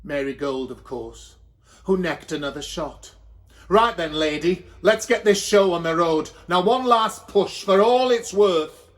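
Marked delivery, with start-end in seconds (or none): 3.7-8.9 louder, firm push order; rally her for the last push; bossy encouragement. Acted. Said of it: "midwife urging the last push".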